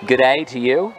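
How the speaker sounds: lightly put-on Australian accent; a mock Aussie greeting, only lightly accented; super Aussie accent. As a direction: have a half-hearted go at an Australian accent. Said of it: "in my super Aussie accent".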